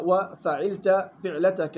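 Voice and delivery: وفعلت فعلتك misread with "fi" in فعلتك; wrong kasra reading. Shown as a demonstration. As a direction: slowly show فعلتك as "fi'latak". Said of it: "مش وفعلت أو ف". (فعلتك بكسر الفاء خطأً)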